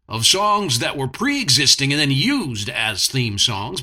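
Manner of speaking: lightly hammed TV announcer. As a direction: read it like a TV promo announcer. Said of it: "in a T V announcer voice".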